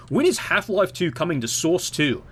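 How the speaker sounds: lightly whined fan question; a hint of put-on whining; mock pestering fan. Imitating fans wanting Source two, lightly mocking whine. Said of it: "You don't need a Source two version".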